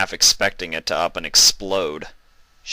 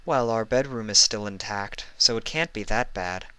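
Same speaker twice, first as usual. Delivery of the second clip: joking Celestia; 3 semitones higher than usual. Acted. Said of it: "said Celestia jokingly".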